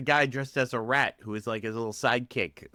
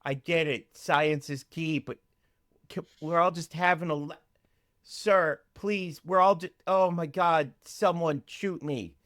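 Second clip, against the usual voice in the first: higher, pleading exasperation; mock exasperation; 4 semitones higher than usual. Listener begging Neil to stop his tangent, mock exasperated. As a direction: plead as if badly fed up.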